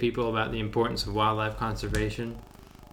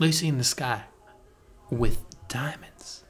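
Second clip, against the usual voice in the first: dreamy mock Beatle. Dreamy Beatle quoting the song.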